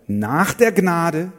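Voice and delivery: loud, very slow proclamation; emphatic reading. Shown as a demonstration. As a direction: stretch out each word. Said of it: "sagt weiter".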